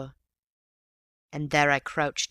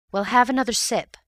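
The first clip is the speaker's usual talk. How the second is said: coaxing; 8 semitones higher, 6 dB louder than usual. A narrator's reading. Ewbank urges the wounded man.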